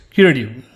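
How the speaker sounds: curative with the T tapped, close to a D; T between D and T. Shown as a demonstration. Teacher explaining the American T, curative with a tapped T. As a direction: soften the T in curative. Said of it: "It's somewhere between D like David".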